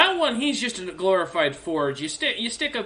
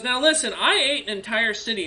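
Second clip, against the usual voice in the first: higher, showy boast; bragging dragon; 6 semitones higher than usual. Acted. Dragon bragging to the party, higher and showy. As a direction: brag about the eaten city. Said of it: "She goes".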